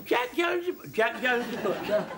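high, loud startled name; agitated excitement. Acted. Butcher hears the news on the phone, high and flustered. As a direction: blurt it out in a fluster.

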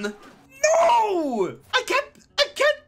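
high shriek through laughter; laugh-screaming in mock despair; half sob, half laugh; laughing cry. Real, not acted. Laughing horror at grandson.

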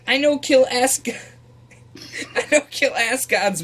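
simple-minded hound creature, halting; beast voice. Acted. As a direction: talk like a dumb friendly monster. Broken-speech beast character.

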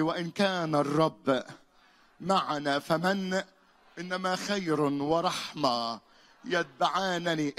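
loud, slow, word by word. Shown as a demonstration. Preacher leads the church through the verse, loud and slow. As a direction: spell out every word for the crowd to follow. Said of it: "قول بصوت عالي".

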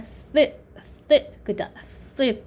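"쓰" as a short voiceless th; th sound demo. Shown as a demonstration. Teacher shows how th sounds, isolated voiceless th. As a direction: isolate "쓰" as a sharp hissed th. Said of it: "티에이치 발음 어떻게 나?".

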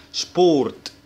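شبورت, first sound like Arabic ش. Shown as a demonstration. Teacher showing German sp, sh at the start of شبورت. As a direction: say شبورت opening with sh before the p. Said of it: "كأنه شين كده".

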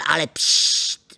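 hushed whisper, shushing; conspiratorial hush. Acted. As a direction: drop to a secret whisper. Hushing before Michal returns.

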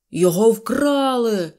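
slow, loud alarmed general; agitated cry. A narrator's reading. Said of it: "схвильовано вигукнув генерал".

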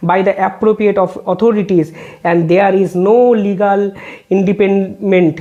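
reading a court order word by word, very slow; slow, measured legal read-out; slow formal reading. Acted. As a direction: spell out each figure deliberately for the record. Reads judge's conclusion.

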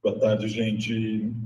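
slow, echoing, delayed copy of the voice; cathedral echo. Real, not acted. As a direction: voice bouncing back from a big hall. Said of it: "tá com eco".

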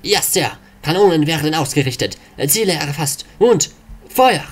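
eager sailor, shouting fire. Acted. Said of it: "Inari-Matrose".

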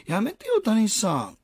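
high mock woman's plea; lightly voiced woman pleading. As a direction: pitch up like a woman behind him. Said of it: "後ろで女の声で".

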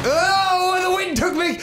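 high, wailing mock alarm; mock distress. Pilot taken by the wind, hammed-up high wail. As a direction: cry out as if being swept away. Pilot blown away in game.

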